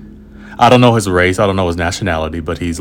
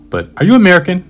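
put-on eager kid question; 12 semitones higher, 6 dB louder, faster than usual. Boy eagerly asks about nationality.

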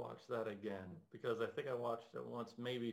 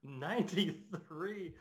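slow, disbelieving ninety-three; stunned disbelief; 6 semitones higher, much slower than usual. Retold or imitated. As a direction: draw it out in shock. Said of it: "I was like".

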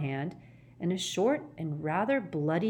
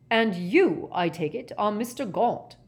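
higher, mildly angry; pointed, cross official; 4 semitones higher, 5 dB louder than usual. Acted. Ogden confronting Gaunt after the attack, angrily. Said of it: "said Ogden angrily".

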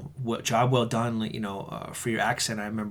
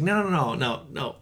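hasty denial; 2 semitones higher, 3 dB quieter than usual. Retold or imitated. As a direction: rush to deny it, pitched up. Retelling his hasty denial.

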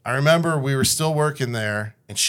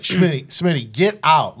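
raised, urgent officer's call; 4 semitones higher, 5 dB louder than usual. Retold or imitated. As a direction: call him out of the cell, pushing. Officer urging inmate out of cell.

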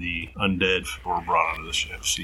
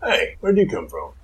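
suspicious crewman; 4 semitones higher, 4 dB louder than usual. Acted. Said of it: "a couple that say".

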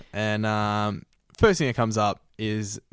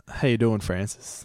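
badly faked American accent; half-hearted American greeting. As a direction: have a weak go at an American accent. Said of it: "Can you do the accent?".

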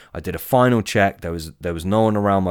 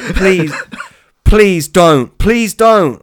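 much higher and louder pleading squeal, with laughter; girly shriek; 11 semitones higher, 9 dB louder, much slower than usual. Retold or imitated. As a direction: beg like a terrified little girl, pitched way up. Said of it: "It probably sounded like that, but way girlier".

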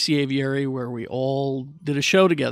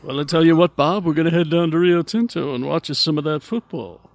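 lightly voiced old crooner; a hint of a 1940s star chatting; Bing Crosby impression. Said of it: "you pair it with the Bing".

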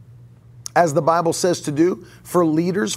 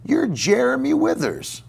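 higher, lightly voiced old professor; a hint of the eccentric teacher naming a student; 8 semitones higher than usual. Retelling the professor greeting a student, lightly voiced. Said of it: "and he'd say".

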